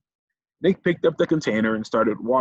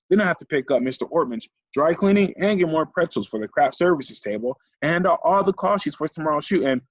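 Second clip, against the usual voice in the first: flustered assistant; 6 semitones higher than usual. Acted. Harried assistant lists coffee orders.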